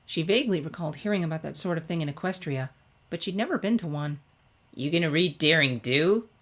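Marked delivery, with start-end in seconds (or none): 4.7-6.3 lightly voiced sporty tomboy; eager, a touch brash; Rainbow Dash. A narrator's reading. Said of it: "asked Rainbow".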